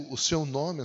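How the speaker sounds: normal talking voice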